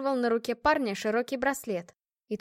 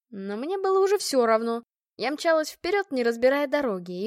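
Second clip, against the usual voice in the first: usual speaking voice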